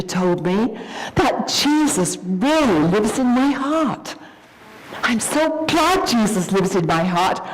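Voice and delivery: put-on a small girl proudly sharing a secret; child cheering up her mother with faith; little girl voice.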